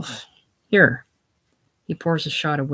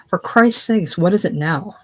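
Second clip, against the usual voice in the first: higher, louder irritated exclamation; annoyed outburst; 3 semitones higher, 4 dB louder than usual. Acted. Interrupted warden bursts out at the ringing phone, annoyed.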